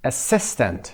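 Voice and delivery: "assistant" with SIS stressed; teacher's model "assistant", second syllable strongest. Shown as a demonstration. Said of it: "قسمت دوم روی سس".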